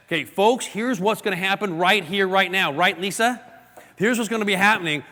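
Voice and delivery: punchy, emphatic chopping delivery; forceful speaker. Acted. Acting out a speaker chopping the air.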